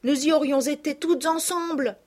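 put-on excited little girls. The cousins pepper the returned girls with questions, high and excited. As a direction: burst out with questions, overjoyed.

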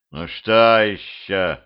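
slow, yawned-out sleepy words; yawning. Acted. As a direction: say it through a yawn. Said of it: "зевнул Петрович". (сквозь зевоту, медленно)

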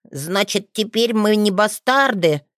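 put-on a boy hoping he is not a bastard; hint of a child's eager voice; hopeful boy. Boy Theo asks hopefully.

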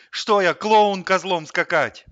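loud, high, slow outburst; indignant protest. A narrator's reading. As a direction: refuse with wounded indignation. Hamster protests forced dancing. (возмущённо, с надрывом)

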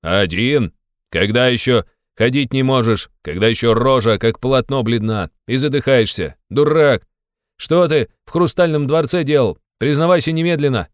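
loud, high, furious tirade; angry scolding. Acted. Razumikhin berating Raskolnikov for fleeing, shouting angrily. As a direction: tear into him like a furious friend.

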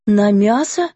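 a touch of horror; mildly horrified question. A narrator's reading. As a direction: gasp it out, shocked. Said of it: "с ужасом спросила Лорен".

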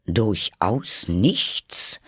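slow, drawn-out insistent question; pressing question. Acted. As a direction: press her on it, slowly. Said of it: "drang der König in sie".

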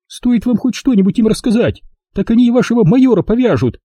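high voice, hurrying at the end; warning. A narrator's reading. Jigger warns Miss Rushby, high and quick. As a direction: rush the warning out. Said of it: "предупредила Джиггер".

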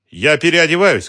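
loud, high shout from another room. A narrator's reading. Woman shouting from the next room, loud call. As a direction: call back sharply. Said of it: "крикнула она".

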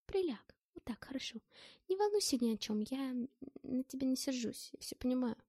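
tender. Acted. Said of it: "источало нежность и заботу".

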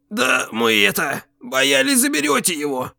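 a mild apologetic whine; justifying. A narrator's reading. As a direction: plead your excuse meekly. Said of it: "оправдывающийся голос Витька".

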